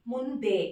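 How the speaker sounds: ముందే with a long e ending; final e vowel. Shown as a demonstration. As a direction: end ముందే on a clear "dē" instead of "du". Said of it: "దే, ఏకారం add చేయండి".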